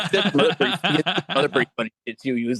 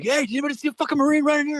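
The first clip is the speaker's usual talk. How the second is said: mock colonel call. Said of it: "he's like".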